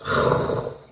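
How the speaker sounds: long voiceless huff of breath; mock appalled exhale; imitated disgusted exhale. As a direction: blow out a hard, audible breath in reaction. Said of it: "Immediately she goes".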